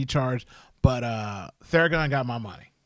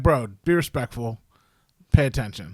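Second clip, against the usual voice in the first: lower, firm scolding; stern; 4 semitones lower than usual. Retold or imitated. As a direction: lay down the law, bro.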